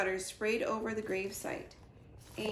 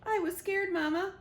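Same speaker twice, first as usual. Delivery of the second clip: crying gosling; 10 semitones higher, 4 dB louder than usual. Acted. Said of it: "cried the goose".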